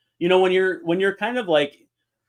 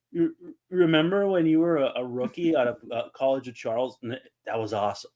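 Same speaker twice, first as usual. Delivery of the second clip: halting starstruck fan, trailing off softer; Chris Farley; 3 dB quieter than usual. Retold or imitated. Reliving awkward chat with a former rookie, sheepish fumbling. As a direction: stumble through awkward small talk, sinking in volume. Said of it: "You turned into Chris Farley".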